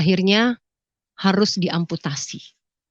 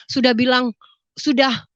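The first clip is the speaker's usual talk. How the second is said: ordinary delivery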